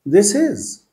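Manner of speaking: "This is" with the th said between the teeth; slow, clear "This is", tongue between the teeth; careful th. Shown as a demonstration. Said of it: "في التي اتش كده تطلع لسانك".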